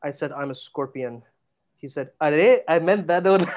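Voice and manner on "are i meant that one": put-on Indian accent, high-pitched and raised. Retelling a woman's reply in a conversation, in an Indian accent. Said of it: "I don't know why I did Indian accent".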